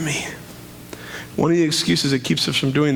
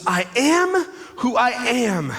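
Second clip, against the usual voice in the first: slow majestic God voice; 6 semitones higher, much slower than usual. Acted. God answers Moses.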